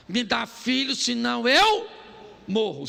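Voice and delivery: put-on loud, pushy demand for a child; demanding plea. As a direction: push him hard, near shouting. Raquel pressuring Jacob.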